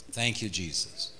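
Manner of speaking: hushed thanks. Real, not acted. Praise softens after the high point.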